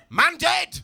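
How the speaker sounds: high, loud sung-out cry; shouted punchline. Acted. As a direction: belt the doom out.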